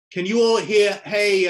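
calling out to check. Real, not acted. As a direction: reach everyone on the call. Checking audience can hear on call.

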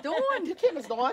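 drawn-out New York "Dawn", amused; New York accent. Acted. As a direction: imitate a New Yorker saying Dawn. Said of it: "all the New Yorkers that move here".

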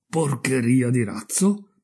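slow, questioning repeat with rising end; puzzled echo. Acted. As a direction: weigh the insult in slow disbelief. Offended rocket echoes the insult.

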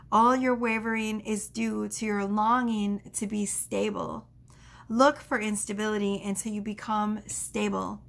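slow, solemn poetic reading; measured spiritual recitation; oracle reading. Acted. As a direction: read it like a sacred message. Reads oracle card message.

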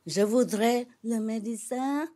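put-on a light French accent on Je voudrais le médecin; mock-elegant French accent. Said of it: "talk it in the French, uh, accent".

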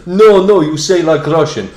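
put-on loud, insistent Polish-accented correction; Artur. Polish workmate rebuking the learner, loud Polish accent. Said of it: "this guy called Artur going".

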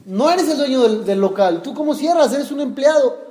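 mock outraged landlord, not full volume; retold yelling. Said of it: "le empieza a gritar".

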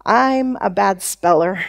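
low, slow self-judgement; resigned verdict on yourself, dropped low; dejected inner voice. Acted. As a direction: say it low, like an old belief about yourself. Inner message of a failed speller.

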